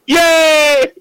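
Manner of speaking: high cheering shout. Retold or imitated. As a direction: cheer him on wildly. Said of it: "cheering him on and going".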